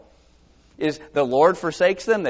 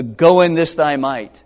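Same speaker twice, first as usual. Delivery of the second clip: commanding charge; 7 dB louder than usual. Acted. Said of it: "He goes".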